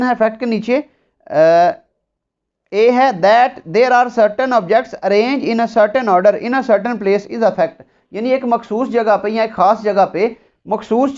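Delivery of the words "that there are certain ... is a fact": very slow, word by word reading of the law; slow dictation. Shown as a demonstration. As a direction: dictate each word so students can write. Dictating statute text slowly. (बहुत धीमे, शब्द-शब्द बोलकर लिखवाना)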